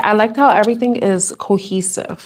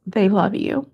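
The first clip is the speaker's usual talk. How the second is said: choked up; 4 dB quieter, slower than usual. Real, not acted. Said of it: "I'm getting emotional right now".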